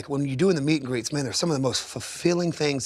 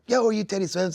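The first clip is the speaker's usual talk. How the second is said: higher-pitched call of recognition; excited fan; 7 semitones higher than usual. Retold or imitated. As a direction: imitate a fan spotting a star. Fan spots him at the airport.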